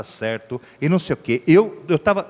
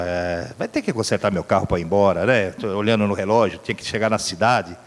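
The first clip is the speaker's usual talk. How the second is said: impatient driver; 8 semitones lower than usual. Retold or imitated. Driver impatient, voiced low.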